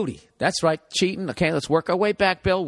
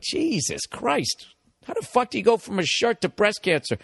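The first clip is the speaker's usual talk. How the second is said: mock disbelief; 4 semitones higher than usual. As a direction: react like someone just crossed the line. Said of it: "And you're like".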